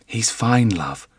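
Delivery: a calm, steady reassurance. A narrator's reading. Wife soothing husband after his nightmare, steady and calm. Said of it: "her voice steady and calm".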